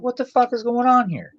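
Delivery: high-pitched mock disbelief; acted bewilderment. Podcaster acting out a viewer's reaction to Hatchet, mock bewilderment. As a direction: voice leaps up, playing a baffled viewer. Imagined reaction to surprise horror-star cameo.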